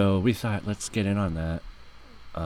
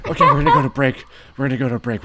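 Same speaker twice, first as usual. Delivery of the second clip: loud announcing; 7 semitones higher, 13 dB louder, much faster than usual. Acted. Announcing break, laughing loudly.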